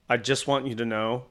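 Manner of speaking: low, soft, measured aside; quiet deadpan assurance. Retold or imitated. Gruff woman squarely to the artist, low deliberate assurance. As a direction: say it confidentially, with restrained disgust.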